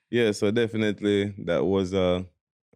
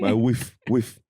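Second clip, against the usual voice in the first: put-on African accent; 2 semitones higher, slower than usual. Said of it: "With the, with the accent".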